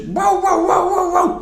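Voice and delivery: high-pitched imitation dog barks; loud barking. Imitating the neighbours' dog on coming home from school, loud barking. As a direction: bark rapidly like a noisy dog. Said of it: "like, or loud barking".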